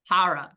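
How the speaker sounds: HORROR as HAH-ruh; regional pronunciation. Shown as a demonstration. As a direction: open first vowel, dropped final r in HORROR. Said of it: "regional debate on how to pronounce horror".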